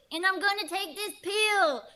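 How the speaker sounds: ordinary talk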